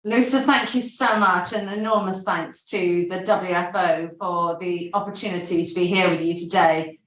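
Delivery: slightly out of breath after rushing in. Real, not acted. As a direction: speak a little breathless from hurrying. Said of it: "forgive me if I'm a little bit out of breath".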